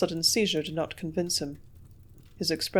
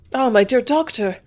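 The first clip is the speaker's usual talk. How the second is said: eager greeting; 5 semitones higher, 7 dB louder than usual. A narrator's reading. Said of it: "I cried eagerly".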